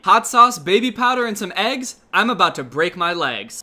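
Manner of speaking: loud, bouncy mock nursery rhyme. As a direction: read it like a little nursery rhyme. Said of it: "it's a rhyme".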